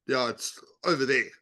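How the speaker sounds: flat, offhand brush-off; curt dismissive. Shown as a demonstration. Salesperson brushing off a visitor's question, curt. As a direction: wave them away. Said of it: "than this, or".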